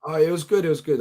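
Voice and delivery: hoarse, worn-out voice; lost voice. Real, not acted. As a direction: speak through a lost voice. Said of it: "As you can hear, I've lost my voice".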